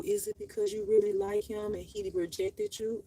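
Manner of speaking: lightly mocking stern principal; imitating the principal. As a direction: voice the principal's suspicious question. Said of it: "then the principal".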